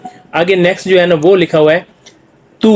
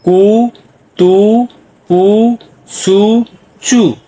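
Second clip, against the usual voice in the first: long rising syllables, higher pitched; drawn-out syllable drill; 4 semitones higher, much slower than usual. Shown as a demonstration. Teacher reads row three to students, drawn-out syllables. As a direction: hold each vowel, pausing between them.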